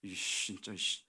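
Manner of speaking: low, soft grumbled curse; retold simmering irritation; suppressed anger. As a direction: swear under your breath. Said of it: "화가 막 치밀어 오르더라고".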